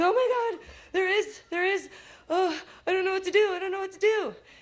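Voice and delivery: mock panic, very high, words tumbling over. Retelling seeing a tornado while driving: retelling own panic. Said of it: "And I start freaking out".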